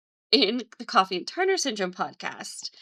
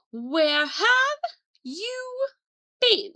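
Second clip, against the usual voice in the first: put-on horrible British accent; 14 semitones higher, much slower than usual. Mum Mrs Weasley scolding the boys at the kitchen door, in a bad British accent. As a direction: shriek it like a cross British mum, accent overdone. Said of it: "I'm doing a horrible accent".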